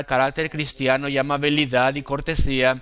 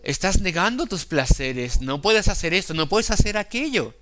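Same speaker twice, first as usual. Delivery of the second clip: mock devil voice, pitched higher; the devil's taunt; 4 semitones higher than usual. Preacher voices the devil tempting believers, lightly acted and pitched higher. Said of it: "Dice el diablo".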